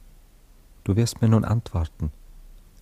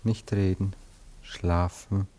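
lulling hypnotist. Acted. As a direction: lull her gently to sleep.

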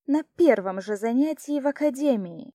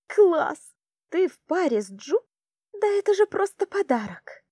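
delighted, much higher and louder; thrilled; 9 semitones higher, 5 dB louder than usual. A narrator's reading. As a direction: burst out with glee. Анж thrilled about the duel. (восторженно, высоко и громко)

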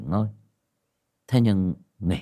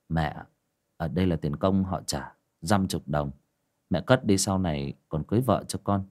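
a hint of a lower, easy son's voice; lightly voiced young son; 3 semitones lower, 3 dB quieter than usual. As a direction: answer the father calmly, a little lower. Son hands money to mother.

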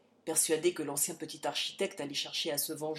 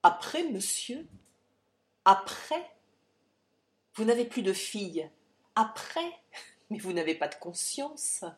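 outraged daughter; 3 semitones higher, 5 dB louder than usual. Acted. Daughter advances on father.

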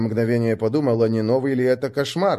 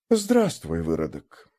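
villain voice; 7 semitones lower, slower than usual. Acted. Villain greets hero.

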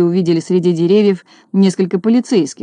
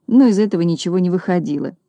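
ordinary delivery

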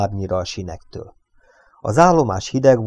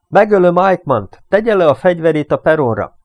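loud, high, rapid-fire order; cool, staccato threat; 8 semitones higher, 7 dB louder than usual. A narrator's reading. Reynolds threatens to kill his hostage, cool and staccato. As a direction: rap out the threat forcefully. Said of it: "Reynolds hangja hűvös volt és pattogó".

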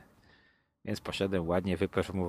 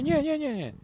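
much higher, rushed imitated denial; emphatic denial. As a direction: deny it fast and eagerly. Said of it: "Ja mówię". (żarliwe zaprzeczenie)

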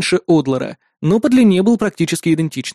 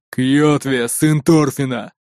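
shout; 3 semitones lower, much slower than usual. A narrator's reading. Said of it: "крикнул в ответ Нуки".

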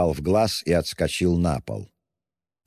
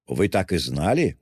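ordinary delivery

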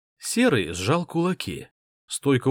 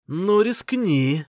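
slow, louder, higher mocking dare; taunting dare; 7 semitones higher, 4 dB louder, much slower than usual. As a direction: dare him, slow and cocky. Hero dares attacker.

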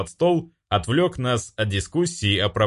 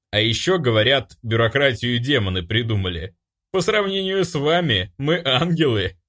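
demon; 4 semitones higher than usual. Acted. Demon voice, still chuckling.

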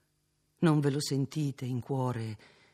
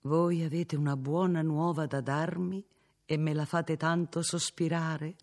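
affectionate; 4 semitones higher than usual. Acted. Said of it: "riprese ancor più affettuosamente".

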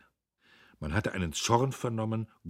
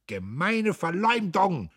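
high, loud, drawn-out cry of slander; indignant shout; 12 semitones higher, 6 dB louder, slower than usual. A narrator's reading. Dietrich shouts into his accuser's face, indignant. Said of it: "schrie er Södbier ins Gesicht".

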